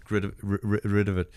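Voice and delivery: stumbling over crumbs in the throat; croissant-clogged throat, words catching; throat full of croissant. Real, not acted. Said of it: "I just had a fucking croissant".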